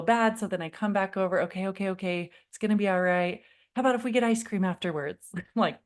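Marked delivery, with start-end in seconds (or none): 1.4-5.3 bribing. Retold or imitated.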